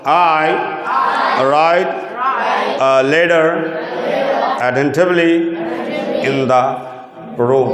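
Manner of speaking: words spaced out, "room" falling; falling end. Shown as a demonstration. Teacher asking class to say it falling. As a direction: say it with the falling tune. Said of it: "এখন falling বলো".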